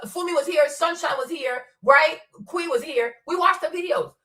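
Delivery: normal talking voice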